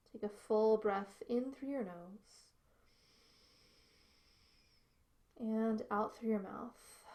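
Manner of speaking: measured yoga teacher voice with long pauses; unhurried, spaced-out breathing cues; guided yoga breathing. Real, not acted. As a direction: guide them calmly into the breath. Leads breathing in yoga practice.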